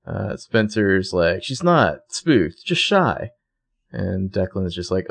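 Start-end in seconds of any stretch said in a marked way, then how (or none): 1.4-3.3 slow, raised, prim little insistence; drawn-out haughty correction; prissy defense. Retold or imitated. Spencer defending Emily to Declan.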